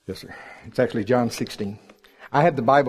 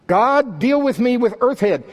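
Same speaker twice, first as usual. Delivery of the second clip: high, raised-voice appeal; mock plea; 10 semitones higher, 4 dB louder than usual. Believer asking God to deal with earth head, pleading. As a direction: call up to God with playful exasperation.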